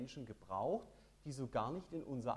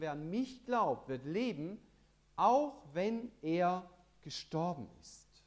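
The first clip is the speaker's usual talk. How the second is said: feierlich verkünden; 4 semitones higher, 8 dB louder, slower than usual. Acted. Jesus verkündet Auferstehung.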